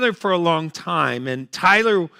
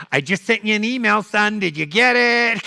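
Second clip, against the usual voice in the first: put-on lightly raised old mother's voice; mom voice; 4 semitones higher than usual. Elderly mother checking on her son, lightly higher voiced. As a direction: ask it like a fussing elderly mom.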